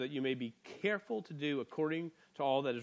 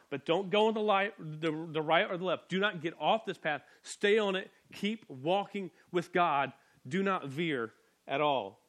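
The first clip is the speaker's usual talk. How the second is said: urgent exhortation; 3 dB louder than usual. Real, not acted. Preacher urging the congregation.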